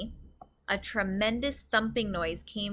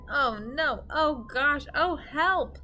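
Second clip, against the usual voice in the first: put-on spluttering girl; 5 semitones higher, 4 dB louder, slower than usual. A narrator's reading. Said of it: "she spluttered".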